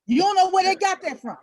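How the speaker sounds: incredulous. Real, not acted. Speaker mocking adults who claim ignorance, incredulous. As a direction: scoff at the claim out loud. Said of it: "what cracks me up".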